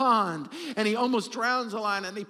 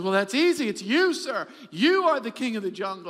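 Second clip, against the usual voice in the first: louder, eager tiger voice; deferential tiger; 4 dB louder than usual. Acted. Tiger answering the lion, eager and a bit louder. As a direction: answer quickly to please the king.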